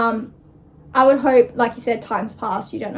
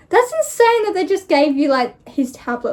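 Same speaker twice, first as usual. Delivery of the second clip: amused disbelief; 4 semitones higher, 4 dB louder than usual. Real, not acted. Reacting to the tablet punishment.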